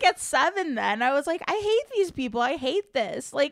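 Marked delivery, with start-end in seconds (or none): 1.5-3.3 put-on high whiny child; whiny kid voice. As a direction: whine it like a grumpy seven-year-old. Child self complaining.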